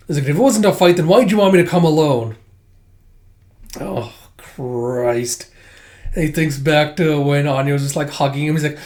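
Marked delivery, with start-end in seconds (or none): 0.3-2.3 put-on flustered boy. Retold manga, boy demanding.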